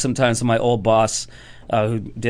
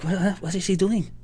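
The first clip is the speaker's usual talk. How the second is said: higher, odd put-on crowd voice; puzzled crowd; 8 semitones higher, 4 dB quieter than usual. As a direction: mutter it like a baffled diner. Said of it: "They're like".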